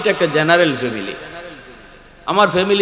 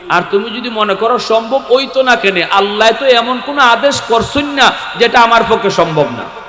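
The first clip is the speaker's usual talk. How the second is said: higher-pitched, insistent sermon voice; impassioned preaching; 9 semitones higher, 6 dB louder than usual. Real, not acted. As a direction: press the argument on the congregation. Preaches with raised force.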